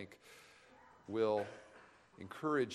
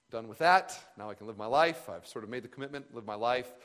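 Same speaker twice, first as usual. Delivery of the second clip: mock relieved; 6 dB louder than usual. Retold youthful relief.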